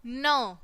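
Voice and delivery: न as an isolated "nuh", not "en"; phonics sound. Shown as a demonstration. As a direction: sound out each न separately. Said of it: "कैसी sound निकलेगी". (न को अलग ध्वनि की तरह बोलें)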